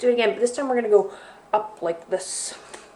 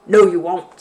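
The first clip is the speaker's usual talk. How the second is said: snorting; 9 dB louder than usual. Acted. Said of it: "snorted the bear".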